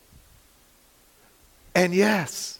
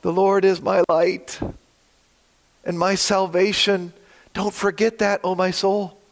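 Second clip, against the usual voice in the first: struggling, earnest plea to God; pleading prayer. Shown as a demonstration. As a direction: pray it like you're barely holding on. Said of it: "Sometimes I have to sing verse one more like this".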